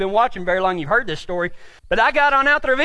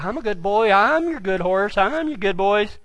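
chastened horse; 4 semitones lower than usual. Retold or imitated. Horse behaving after the cactus, lightly voiced chastened horse. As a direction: lightly voice a meek, obedient horse.

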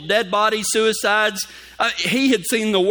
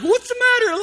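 doctor asking. Retold or imitated. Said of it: "He comes in there like".

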